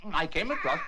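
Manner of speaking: mumbled through a mouthful of bread and jam; "I came across" chewed, words blurred round the food; mouth full. Real, not acted. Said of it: "talking with my mouth full".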